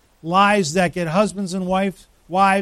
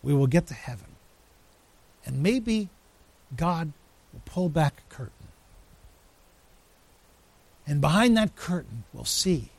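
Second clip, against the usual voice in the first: Richard Wurmbrand; 3 dB quieter than usual. Retold or imitated. Preacher retelling a vision of heaven, imitated Polish accent. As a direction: imitate a Polish storyteller, measured and hushed at the end. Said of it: "It's a Polish accent, and he said".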